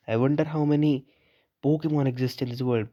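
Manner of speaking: drawn-out slow read of the line. Acted. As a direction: read it slowly and evenly. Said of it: "फिर चुप हो गया एकदम ही". (धीमे पढ़ना)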